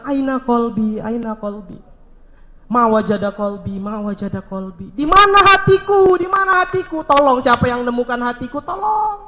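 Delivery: rising, pleading cry for his lost heart; anguished lament. Acted. Lost youth crying for his heart. (ratapan pilu memohon pertolongan)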